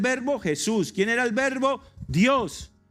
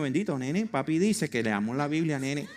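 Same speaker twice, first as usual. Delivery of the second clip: put-on Puerto Rican accent. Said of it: "O un puertorriqueño".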